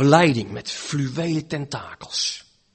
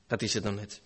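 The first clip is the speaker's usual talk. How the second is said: much softer and lower, almost to himself; quiet echo; 7 semitones lower, 11 dB quieter than usual. Acted. Preacher echoing the doubter's despair to himself, softly. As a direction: let it sink back in resignation.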